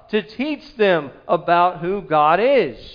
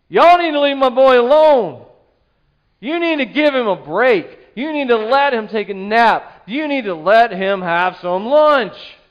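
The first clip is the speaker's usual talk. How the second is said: protective mama bear; 2 semitones higher than usual. Acted. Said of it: "like a mama bear".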